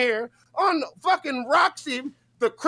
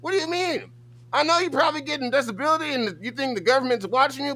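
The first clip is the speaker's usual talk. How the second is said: ordinary talk, nothing marked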